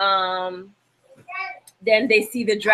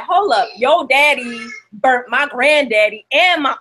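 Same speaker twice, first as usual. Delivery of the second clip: higher mock-indignant objection; indignant retort; 4 semitones higher, 4 dB louder than usual. Recapper playing Jon objecting to Daenerys, mock indignant. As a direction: act out a comic protest, punching the family words.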